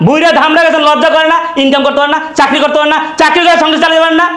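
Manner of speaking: heated, rising tirade; angry yelling. Acted. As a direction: berate the in-laws, question after question. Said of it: "চিল্লাচিল্লি করতেছো".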